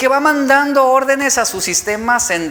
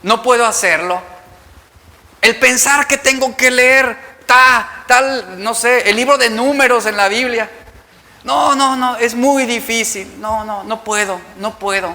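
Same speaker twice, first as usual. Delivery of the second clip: whiny complaint; 3 semitones higher, 4 dB louder than usual. Acted. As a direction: complain like you can't face the book. Reluctant reader complaining about Numbers. (queja llorona de flojera)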